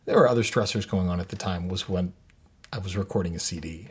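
hushed so his wife won't hear; talking quietly. Real, not acted. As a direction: keep it down, confiding. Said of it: "I'm talking quietly".

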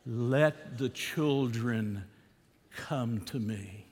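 gentle. Retold or imitated. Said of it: "what did he say?".

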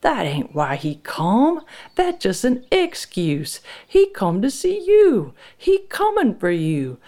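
high, slow, emphatic warning; angry insistence. A narrator's reading. Frank warning his wife about the visitor, insistent. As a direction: drive each point home to your wife. Husband argues about intruder.

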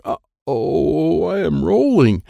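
panicking as the bin rolls; alarmed. A narrator's reading. Bin starts moving.

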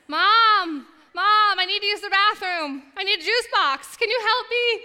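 put-on high whiny kids' voices; high little-kid pleading; kids calling Mom. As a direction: pipe up like little kids begging. Kids knocking on bathroom door.

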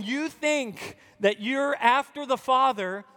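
lightly voiced Jesus, firm and searching; Jesus rebuking. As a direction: plead with the self-righteous to see.

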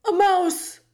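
loud royal bellow. Acted. The king bellows on discovering a mouse at his feet. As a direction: roar it out in shock. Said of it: "bellowed the king".

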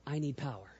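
breathy whispered plea. Shown as a demonstration. Leading the congregation, he whispers the words. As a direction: whisper it to yourself, unvoiced. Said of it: "Do just like this and say".

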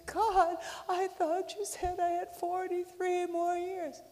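high, loud indignant complaint; indignant woman complaining. Acted. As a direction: raise the pitch, outraged. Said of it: "she said".

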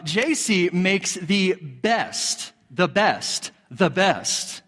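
slow, with BEST hit each time; "best" set apart and punched, repeated; emphatic stress. Real, not acted. Husband brags on his wife's cookies, stressing "best".

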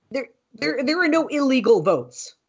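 high emphatic voice. Real, not acted. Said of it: "Are you gonna fly, Mom?".

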